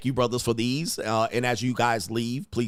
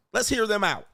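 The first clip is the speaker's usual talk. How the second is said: higher-pitched mimicry of gullible people; mock naive public; 8 semitones higher than usual. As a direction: imitate credulous folks pleading in a raised pitch. Voicing people welcoming invading Martians.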